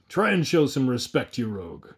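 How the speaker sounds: the mayor putting a ragged man in his place; indignant. Acted. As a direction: threaten him with a thrashing. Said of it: "the indignant burgomaster replied".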